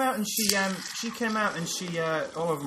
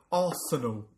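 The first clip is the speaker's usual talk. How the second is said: Arsenal in an English football fan's accent; put-on English accent; 5 semitones lower, slower than usual. Shown as a demonstration. Fan explains singing at matches, put-on English accent. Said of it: "put on an accent".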